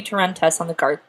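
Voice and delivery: short of breath mid-sentence; running out of air. Real, not acted. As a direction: gasp through the end of the sentence. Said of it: "I am running out of breath before I finish a sentence".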